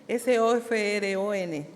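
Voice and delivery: spelling-bee style, letter by letter; name each letter of the word in turn. Shown as a demonstration. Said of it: "me parezco a los spelling americanos".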